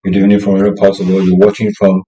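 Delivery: hoarse, throat hurting; sore throat voice. Real, not acted. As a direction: speak through a sore throat. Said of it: "I'm having a sore throat somehow and it's hurting me".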